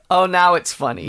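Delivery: giggling while saying it; laughing through words. Retold or imitated. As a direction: laugh the line out. Laughing quote vs plain echo.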